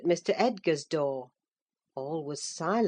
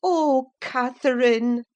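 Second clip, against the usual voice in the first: loud, much higher cry of grief; sorrowful cry; 7 semitones higher, 8 dB louder than usual. A narrator's reading. Nurse crying out sorrowfully at the girl's lie. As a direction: cry out her name, heartbroken. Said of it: "I cried sorrowfully".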